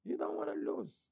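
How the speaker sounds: high playful jab; high teasing. Shown as a demonstration. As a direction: toss it up high and mocking. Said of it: "Do you?".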